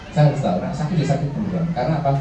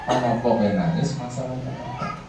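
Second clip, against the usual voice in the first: put-on slow, soft questions to a crying child; gentle asking; 6 dB quieter, slower than usual. Shown as a demonstration. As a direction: coax the child to tell you, slowly. (lembut dan pelan bertanya pada anak yang menangis)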